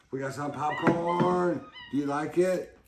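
high, slow, loud sing-song to the monkey; excited pet talk. Real, not acted. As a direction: coo at him like a thrilled parent.

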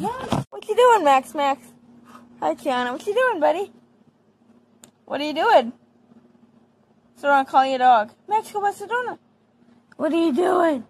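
high teasing pet voice; dog talk. Real, not acted. Girl asking her wild dog what he's doing, high pet talk.

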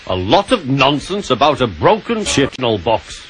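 grumbling. Acted. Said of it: "grumbled Gordon".

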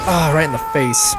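shouted ah, right in the face; pained shout. Real, not acted. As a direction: yell as you get hit. Shot in the face.

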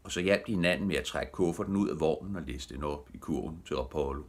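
usual speaking voice

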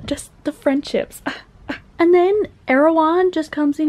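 ordinary talk

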